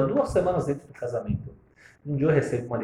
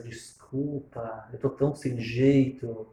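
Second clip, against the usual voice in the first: sheepish apology; much slower than usual. Retold or imitated. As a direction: apologize awkwardly. Mother-in-law apologises on phone.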